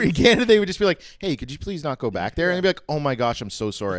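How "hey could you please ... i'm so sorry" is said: soft, meek acted politeness; low, softened mock courtesy; polite Canadian. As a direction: apologise gently and profusely. Imagined overpolite Canadians apologising.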